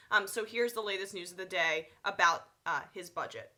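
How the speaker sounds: stuffy nose, talking through it; blocked nose. Real, not acted. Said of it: "a little stuffy".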